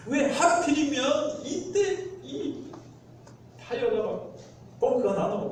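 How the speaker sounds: high-pitched, drawn-out mock complaint; lightly hammed-up exasperation; exasperated outburst. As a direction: act out fuming at bad luck. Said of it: "어, 폭발하는 거죠".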